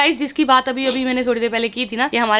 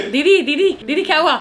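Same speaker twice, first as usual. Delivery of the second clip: lightly imitating a worried helper, higher; mock worried call; 5 semitones higher, 4 dB louder than usual. Imitating the helper waking her at night, higher and laughing. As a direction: call out didi, laughing a little. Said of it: "शांति कह रही है मुझे".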